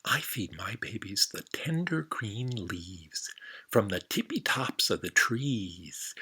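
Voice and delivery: soft, slow whispered mother giraffe; gentle giraffe whisper. Acted. Kind giraffe whispering to the frog, slow. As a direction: hush it like a gentle soul.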